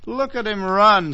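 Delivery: put-on high, delighted child's call; excited little boy. Boy watches freed cub run.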